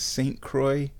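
Croix said as kroy, English style; English Saint Croix. Shown as a demonstration. Local says Saint Croix the English way, as kroy. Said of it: "I think they say Croix".

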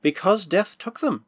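slow and solemn. Acted. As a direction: say it gravely and slowly. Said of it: "she answered solemnly".

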